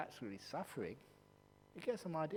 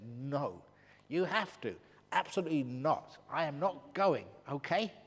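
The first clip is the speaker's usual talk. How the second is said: loud defiant refusal; 6 dB louder than usual. Acted. Woman arguing with the spirit.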